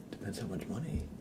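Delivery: soft unvoiced whispered repeat; whispered aside. Shown as a demonstration. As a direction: drop to a hush for the punchline. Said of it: "repeated take".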